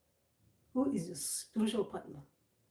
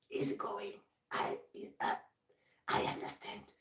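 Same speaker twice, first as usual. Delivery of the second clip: soft, breath-only murmur; hushed, understanding act; voice going down; 5 dB quieter than usual. Acted. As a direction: drop to a near whisper. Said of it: "even your voice goes down".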